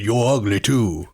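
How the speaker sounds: slow Cajun drawl on the punchline; Rodney Dangerfield joke in a Cajun accent. Pretend. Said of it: "that's a real good Cajun accent?".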